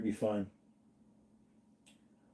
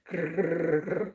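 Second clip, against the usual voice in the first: teeth chattering; 4 semitones higher, 3 dB quieter than usual. Pretend. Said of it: "Those are teeth chattering".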